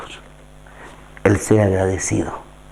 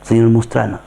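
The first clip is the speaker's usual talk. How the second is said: prayer. Acted. Leads a closing prayer.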